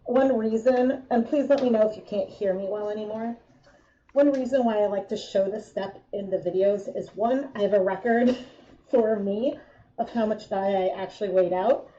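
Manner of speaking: muffled through a respirator mask; talking through a rubber mask. Real, not acted. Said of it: "I'm so much more muffled now".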